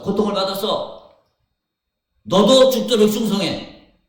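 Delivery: rising to a loud, high cry; preacher voicing Jesus, building to a shout; impassioned plea. Preacher as Jesus urging faithfulness, building to a shout.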